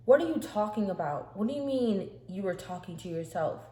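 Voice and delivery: baffled questions, starting loud; retold bewilderment. Rebecca questions her sister's odd claim, confused. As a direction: demand an explanation, mildly incredulous. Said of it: "she's just so confused".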